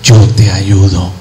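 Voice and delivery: low, slow voice of reassurance; tender reassurance. Acted. God promises help to a believer, low and reassuring. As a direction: say it slowly and deep, as a promise.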